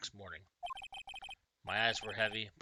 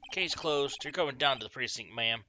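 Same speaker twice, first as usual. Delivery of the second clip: put-on louder Southern-accented police detective; 6 dB louder than usual. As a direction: declare it like a Southern lawman. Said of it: "I gave him a southern accent".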